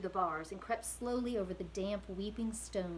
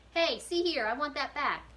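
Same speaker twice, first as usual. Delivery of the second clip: higher, louder outraged protest; indignant shout; 6 semitones higher, 7 dB louder than usual. Acted. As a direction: yell at the thief. Prisoner protests cloth taken.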